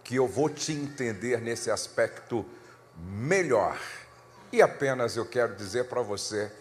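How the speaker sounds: surrender gently, asking forgiveness; sincere apology. Retold or imitated. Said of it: "Aí eu me rendi e disse".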